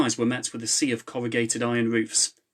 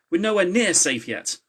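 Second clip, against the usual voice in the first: raised and higher, pressing; urgent raised voice; 7 semitones higher, 4 dB louder than usual. A narrator's reading. Charlie warning the team, raised urgent voice. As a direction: push them onward with urgency.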